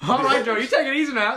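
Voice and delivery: put-on loud, high country send-off, Southern accent; hammed-up Southern accent; mock Southern goodbye. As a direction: holler farewell in a put-on Southern twang.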